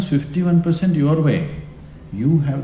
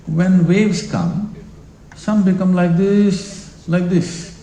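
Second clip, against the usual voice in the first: slow rising wave; 5 semitones higher, slower than usual. Shown as a demonstration. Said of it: "showing waves with the voice".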